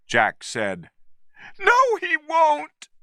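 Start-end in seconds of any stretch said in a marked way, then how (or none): 1.6-2.9 cried out. A narrator's reading. Woman refusing to believe the ape will hurt her, high. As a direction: insist at the top of your voice. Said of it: "she cried".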